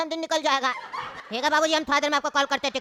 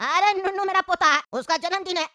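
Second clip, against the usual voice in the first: indignant, slightly raised voice; angry protest; 3 semitones higher than usual. Acted. Grandfather defending his birthday worry to a stranger, angry protest. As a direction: insist heatedly, as if wronged. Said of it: "ऐसे चिल्ला के हमसे क्या बात कर रहे".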